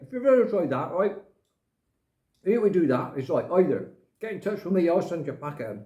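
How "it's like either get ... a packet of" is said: talking while chewing a biscuit; mouth full. Real, not acted. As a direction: speak round a mouthful of food. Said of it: "Excuse me if I'm eating and talking".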